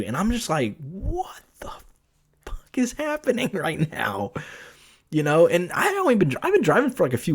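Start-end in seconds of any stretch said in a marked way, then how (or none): 0.8-4.3 breathless whisper that breaks into a laugh; retelling a stunned reaction in a whisper; shocked whisper. Retold or imitated. Shocked aside about passenger.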